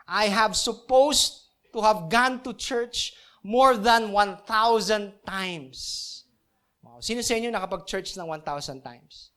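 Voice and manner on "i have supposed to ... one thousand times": slow, lightly voiced skeptical critic; quoting a critic. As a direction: read the critic's words slowly, a hint of a complainer. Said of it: "A critic once wrote a letter". (mabagal na panggagaya sa kritiko)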